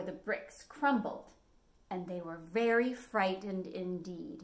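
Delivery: lively storybook narration for little ones; reading to children. A narrator's reading. Teacher reading a story to young kids, lively. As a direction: tell it like a picture book read aloud.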